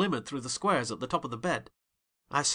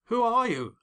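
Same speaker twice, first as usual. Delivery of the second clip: frightened question; 9 semitones higher, 6 dB louder than usual. A narrator's reading. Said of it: "I asked".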